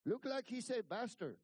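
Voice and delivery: high, loud grumbling impression; imitating Alvino. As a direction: play an unconvinced ranch hand. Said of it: "he's like".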